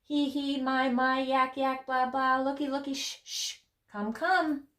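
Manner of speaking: high, steady sing-song patter; playful high-pitched chant; rhythmic refrain. Acted. Rhythmic chorus of nonsense words.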